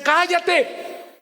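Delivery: high, drawn-out order to hush; acted scolding cry; silencing yell. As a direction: yell it to shut someone up. Acted critics silencing him.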